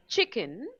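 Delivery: CHICKEN with the first syllable stronger, CHICK-en; first-syllable stress. Shown as a demonstration. Teacher gives an example of word stress, first syllable stressed. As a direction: stress the "chi" of "chicken", lighter "ken". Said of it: "we pronounce the first syllable che louder".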